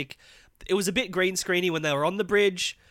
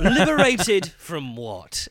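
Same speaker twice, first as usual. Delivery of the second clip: slow, drawn-out mock of a clunky TV line; mocking quote; 5 dB louder, much slower than usual. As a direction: ham up the cheesy script line, slowly. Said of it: "he asks unnecessarily".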